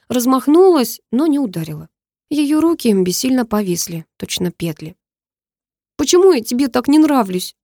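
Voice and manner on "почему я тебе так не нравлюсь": put-on high, squeaky girl's voice; almost squeak it. A narrator's reading. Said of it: "Она почти пропищала". (почти пискляво, высоким голосом)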